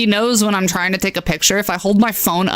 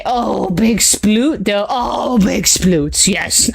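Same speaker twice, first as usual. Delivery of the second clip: cooing at dog; much slower than usual. Real, not acted. Admiring the dog's sploot slowly.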